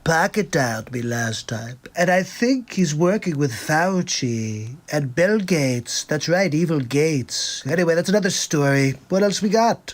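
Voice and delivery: a touch of a presidential impression at a podium; Donald Trump. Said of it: "Donald J. Trump".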